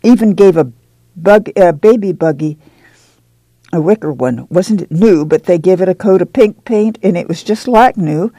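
put-on a young mother telling Ma of the camp, bubbling with excitement; excited girl. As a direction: let the words bubble out, eager and quick. Excited girl's long speech.

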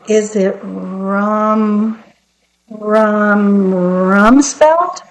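drawn-out first syllable, toying guess; feigned hesitant guessing. Acted. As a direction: stretch it out as if groping for the name. Queen pretends to guess slowly.

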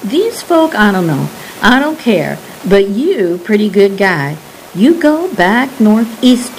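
lightly voiced Cajun old man, earnest warning; a hint of Cajun lilt, dismissive then urgent. Old Pearl warns the guide away from the swamp, lightly Cajun.

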